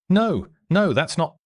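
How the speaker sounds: a hint of a voice cracking with panic; mild narrated voice crack; voice breaking. A narrator's reading. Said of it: "Alexander's voice broke".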